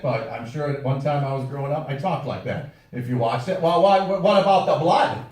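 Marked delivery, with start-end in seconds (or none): 3.6-5.2 put-on a light Wisconsin small-town accent, a bit louder; mock the Wisconsin locals with a hint of Wisconsin twang; playful Wisconsin accent impression; Manitowoc Wisconsin accent. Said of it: "that is the way ninety-five percent of the people in Manitowoc, Wisconsin talk".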